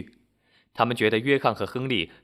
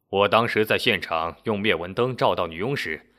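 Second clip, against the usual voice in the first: a slightly lower explaining voice; lightly voiced Henry; 5 semitones lower than usual. Henry explains his cat-urine deduction to the crowd, lightly voiced.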